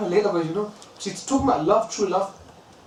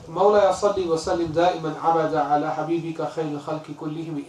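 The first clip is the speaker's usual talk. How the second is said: quick, rhythmic recitation of classical Arabic verse; Arabic verse recited fast; poem recitation; much faster than usual. Acted. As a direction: recite the couplet in flowing chant. Recites known Burda refrain.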